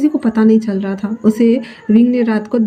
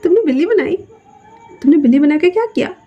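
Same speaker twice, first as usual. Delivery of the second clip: asking while still laughing, pitched higher; laughing disbelief; 6 semitones higher, faster than usual. Acted. Lanza mocking Wing's cat robot, laughing through the question. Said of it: "लांजा हंसते हुए कहता है".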